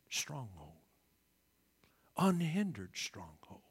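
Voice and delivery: hushed breathy whisper, low. Real, not acted. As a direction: lean in and whisper the word. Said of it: "Did you hear that word?".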